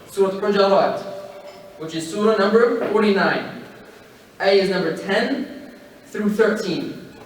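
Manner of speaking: each number spaced out slowly; slow emphatic repeat. Shown as a demonstration. Preacher repeating the verse numbers for the crowd, slow and deliberate. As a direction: repeat it slowly so they remember. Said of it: "I'm gonna say that one more time".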